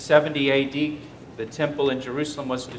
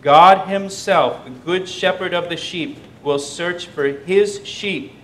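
louder, slow stress on God himself; emphatic proclamation; 3 semitones higher, 4 dB louder than usual. Acted. Preacher stressing that God himself searches, slow and emphatic. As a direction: proclaim it, drawing it out.

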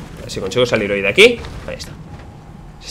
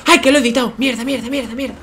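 frustrated cursing; 11 semitones higher than usual. Real, not acted. Accidental edit, frustration.

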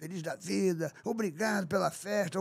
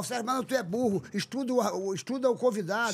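mock heckler. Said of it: "aqui o pessoal senta o pau".

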